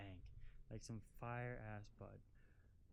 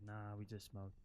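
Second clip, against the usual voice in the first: put-on Italian-accented, low and laid-back; thick Italian accent; 3 semitones lower than usual. Stoned Italian kids answering on the bus, thick Italian accent. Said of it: "in, like, thick Italian accents".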